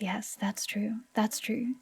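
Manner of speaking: whisper. Real, not acted. Quick whispered aside.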